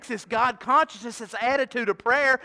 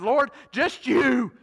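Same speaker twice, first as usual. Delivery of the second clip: slow prayer; 2 semitones higher, 6 dB louder, much slower than usual. Shown as a demonstration. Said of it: "Can you pray that?".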